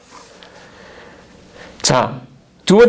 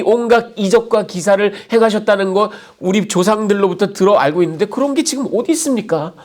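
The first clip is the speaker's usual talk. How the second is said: higher, indignant complaint to God; bold accusation; 6 semitones higher than usual. Acted. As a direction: accuse God boldly, voice raised in pitch. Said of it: "당돌하게 하나님을 비난합니다".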